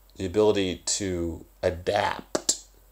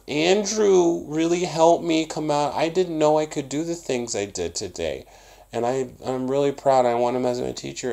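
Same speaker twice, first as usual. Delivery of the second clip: put-on kid reading a review; 7 semitones higher than usual. Teacher mimics a child's written review, higher childish voice. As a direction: read it like a proud young student. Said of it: "they write little reviews".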